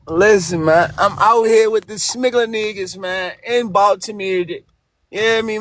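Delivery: heavy Baltimore slang, hard to follow; thick Baltimore accent. Acted. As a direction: talk like you're from Baltimore, thick. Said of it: "Y'all niggas need subtitles".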